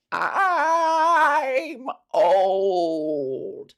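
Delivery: high, loud fake-sob whine; a mocking crying wail. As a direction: whimper it like a mock lament. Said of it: "in that voice".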